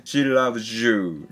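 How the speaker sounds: teacher showing students how "She loves you" links into "shi labju"; linked z-y sound. Shown as a demonstration. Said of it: "She loves youになります".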